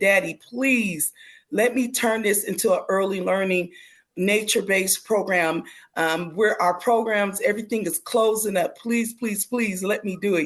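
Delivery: earnest, pleading, begging tone, repeated over and over. Retelling asking father to start a nature-based program: retelling own begging plea. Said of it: "I begged him one more time".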